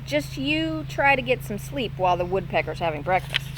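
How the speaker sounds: great cheer. Acted. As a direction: chatter on happily. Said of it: "said with great cheer".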